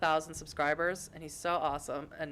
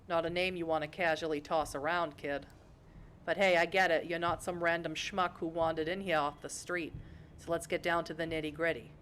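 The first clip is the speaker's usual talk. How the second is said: lightly voiced streetwise detective, Boston accent; a hint of noir swagger; hard-boiled detective D'Angelo. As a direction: play a tough gumshoe with dropped R's.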